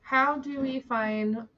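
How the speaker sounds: slow, deliberate reading aloud; careful quote reading. Acted. Host restarting a quote after stumbling, careful quote reading. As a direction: read it out carefully, with spaces between phrases.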